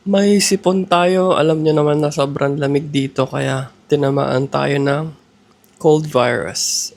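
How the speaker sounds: congested voice, blocked nose; stuffy nose from a cold. Real, not acted. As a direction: talk through a head cold. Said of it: "pagpasensyahan nyo na sa boses ko kasi medyo may sipon tayo".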